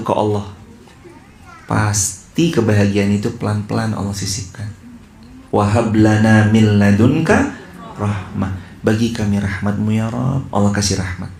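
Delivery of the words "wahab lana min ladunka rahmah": slow chanted Arabic recitation; Quranic recitation. Acted. Preacher recites the verse to the congregation, chanted slowly. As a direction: intone the verse slowly and melodically.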